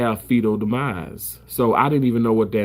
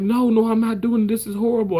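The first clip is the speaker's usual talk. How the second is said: imitating crying refusal; 11 semitones higher than usual. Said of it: "I started crying".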